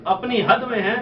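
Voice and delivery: measured recital of verse for a gathering; poem recitation. Acted. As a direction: recite the couplet, lingering on key words. Recites couplets to audience.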